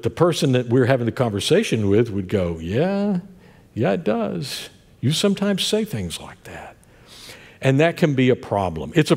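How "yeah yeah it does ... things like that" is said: imitating a friend. Other person answers in conversation.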